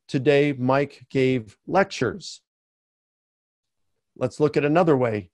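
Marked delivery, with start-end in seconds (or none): 0.1-2.4 slow, deliberate reading of the plural; slower example read. Shown as a demonstration. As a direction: spell out the word lectures slowly and clearly. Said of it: "you could say".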